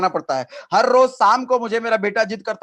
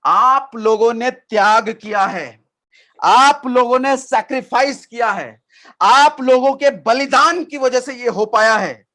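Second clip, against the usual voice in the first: imitating Modi's speech; 2 semitones higher, 4 dB louder, slower than usual. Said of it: "उसमें क्या बोला मोदी जी ने".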